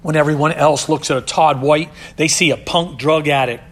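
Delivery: forceful sermon delivery; loud preaching. Real, not acted. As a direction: proclaim it. Preaching climax.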